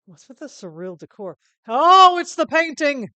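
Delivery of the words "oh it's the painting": very loud, high, stretched exclamation; excited discovery. Acted. Player spotting the missing painting, loud and excited. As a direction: cry out in amazed recognition.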